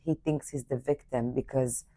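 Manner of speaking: hushed whisper. Real, not acted. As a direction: whisper it confidentially. Speaker drops to whisper.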